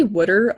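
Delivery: "water" said as "wooder"; regional "water". Retold or imitated. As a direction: say "water" with the vowel of "wood". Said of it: "if you ever say".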